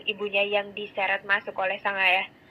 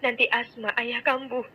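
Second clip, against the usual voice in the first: soothing; 3 semitones higher than usual. A narrator's reading. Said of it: "ucap Farah menenangkan suami".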